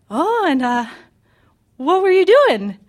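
high-pitched imitation of an adorable mom; adorable mother. Mom phoning after work about the zoo, high imitated voice. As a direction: play the curious mom, pitched well up. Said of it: "my really adorable, short, chubby Japanese mother".

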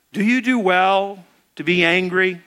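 measured, deliberate question; patient, probing delivery; slowing him down. Acted. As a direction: ask it evenly, word by word. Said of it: "See how he's slowing him down?".

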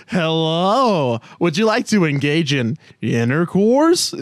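hammed-up seductive voice; a clumsy, overdone attempt at sultry; sexy voice. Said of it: "it's the worst sexy voice".

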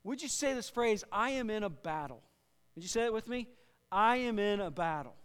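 emphatic, measured sermon delivery; projected pulpit teaching voice; preaching. Real, not acted. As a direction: preach it with weight on the key words. Leads congregation in phrase.

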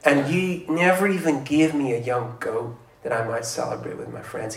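a self-righteous son airing his grievance; indignant older brother. Acted. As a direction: complain to the father like the wronged son. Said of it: "he starts saying".

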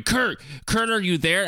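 high-pitched mock yell into a phone. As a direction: call out as if the line might be dead, without real volume. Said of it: "Logan's screaming into the phone and going".

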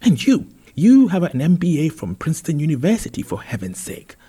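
loud, high-pitched parental reproach; exasperated scolding. Acted. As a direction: scold with big, emphatic swoops in pitch. Parent berating son in story.

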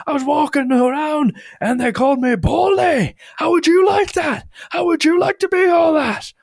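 high, wailing indignant yell; aggrieved shouting. Retold or imitated. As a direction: shout your grievance at the mother. Angry man airs his grievance.

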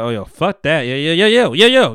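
building into a mock rapper; rapper impression. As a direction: hype it up like a rapper. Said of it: "she got him".

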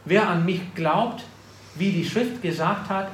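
gepredigt, am Ende leiser werdend; preaching scripture. Acted. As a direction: build the verse and let it fall away. Preacher reads scripture aloud.

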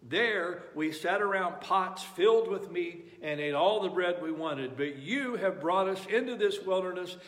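complaining. Retold or imitated. Israelites complaining read with force.

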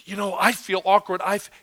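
halting, awkward excuse; hesitant. Acted. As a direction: hedge with pauses as if reluctant. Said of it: "but we're so hesitant".

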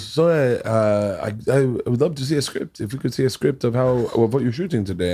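lightly imitated French accent. Host retelling the show creator's script request, light French accent. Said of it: "he's French accent".

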